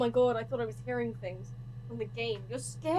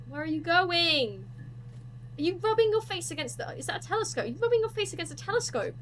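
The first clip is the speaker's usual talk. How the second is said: pet talk; 6 semitones higher than usual. Real, not acted. Streamer asking her cat about the telescope, high pet voice. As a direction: ask the cat teasingly, high.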